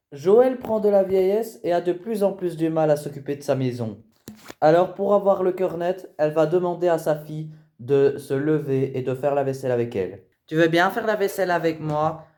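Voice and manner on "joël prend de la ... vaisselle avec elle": documentary narration. A narrator's reading. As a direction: set the scene like a reality show. Voice-over.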